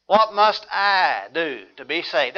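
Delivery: slow question weighted on "I"; stress on I. Shown as a demonstration. Preacher quoting the jailkeeper's question, stress on I. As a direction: give "I" its own deliberate beat. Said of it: "puts emphasis on the individual".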